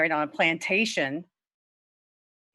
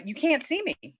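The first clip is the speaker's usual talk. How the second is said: alarmed high cry; 9 semitones higher than usual. Acted. Bride hides from groom.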